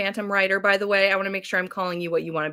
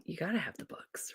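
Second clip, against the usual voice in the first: whisper; 14 dB quieter than usual. Acted. Playful aside to viewers.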